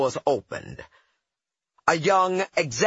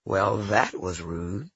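calm even tone; 5 semitones lower than usual. Retold or imitated. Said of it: "in a normal, even tone of voice said".

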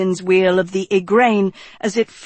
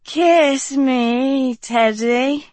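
piffled; 4 semitones higher, much slower than usual. Acted. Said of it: "Dot piffled".

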